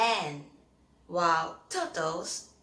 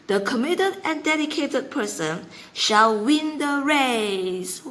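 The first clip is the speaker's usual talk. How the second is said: higher, louder, proud victory speech; triumphant tortoise; 5 semitones higher, 8 dB louder than usual. Acted. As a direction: crow over the bunny at the finish line. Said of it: "Mister Rock happily singing".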